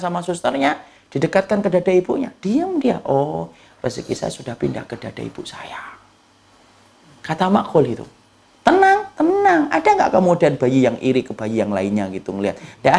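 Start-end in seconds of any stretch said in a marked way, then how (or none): 3.1-6.0 put-on soft baby voice. Voicing contented baby at breast. 8.7-9.7 drawn-out emphasis. Real, not acted. Preacher stresses calmness.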